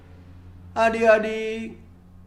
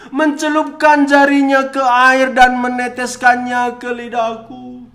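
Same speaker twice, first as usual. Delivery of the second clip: desperate pleading; 3 semitones higher, 5 dB louder than usual. Acted. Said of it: "Dia berkata".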